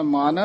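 "ਮਨ" set apart before a long beat; "ਮਨ" alone, then a break; yamak pause. Shown as a demonstration. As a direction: stop briefly after "ਮਨ". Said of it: "ਮਨ ਪਦ ਤੇ ਯਮਕ ਲਾ ਦੇਣੀ".

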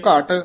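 "ਘਟ" set apart by a short break; "ਘਟ" firmly, then a beat; yamak pause. Shown as a demonstration. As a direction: halt briefly after "ਘਟ". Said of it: "ਇੱਥੇ ਯਮਕ".

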